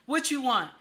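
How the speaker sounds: put-on a touch of a sulky baby; babyish pout. Wife sulking to her husband like a baby. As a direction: pout it like a little child. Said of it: "Act just like a baby".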